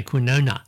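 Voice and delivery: quinona as kwih-NOH-na; common mispronunciation. Shown as a demonstration. Host showing what people say, quinona as kwih-NOH-na. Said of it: "lot of people say quinona".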